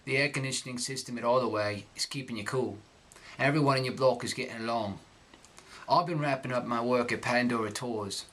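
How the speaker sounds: reading in Cockney accent. Shown as a demonstration. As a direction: read the letter in Cockney. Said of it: "I'm gonna read this text".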